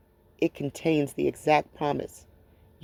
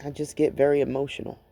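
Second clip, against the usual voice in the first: halting, with long pauses to hold it together; real emotion, reflective and restrained; emotional over loss. Real, not acted. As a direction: let the grief break up the sentences. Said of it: "I get very emotional when I think about".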